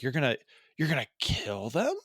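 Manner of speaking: hesitant question, rising sharply on kill. Retold or imitated. Podcaster imitating a hero questioning the killing, hesitant disbelief. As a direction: lift kill into an incredulous question. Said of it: "as a question".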